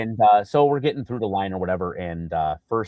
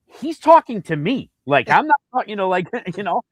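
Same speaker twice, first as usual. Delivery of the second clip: pitched way up, slowed, indignant; high exasperated protest; 11 semitones higher, 6 dB louder than usual. Retold or imitated. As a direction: plead with the guard. Retold protest to security.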